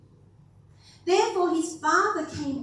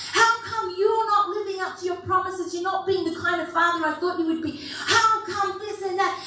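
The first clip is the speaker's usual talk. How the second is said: angry complaint; 3 semitones higher than usual. Retold or imitated. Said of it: "And you can become so angry".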